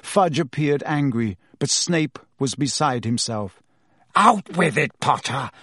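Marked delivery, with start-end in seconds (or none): 4.2-5.5 a hint of a bellowing teacher; bellowed. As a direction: bark at the boy. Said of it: "he bellowed".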